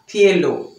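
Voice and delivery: "Cielo" with a lisped th for the c, as in Spain. Shown as a demonstration. Teacher repeating the Spain "Cielo" for her class. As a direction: give "Cielo" the Castilian th sound. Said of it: "e na Espanha".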